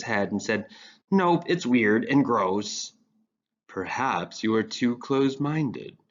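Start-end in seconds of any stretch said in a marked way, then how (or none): 1.1-2.9 slow firm verdict. Acted. 3.7-6.0 slow, breathy wise man; breathy sage voice. Acted. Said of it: "the breathy voice of a sage".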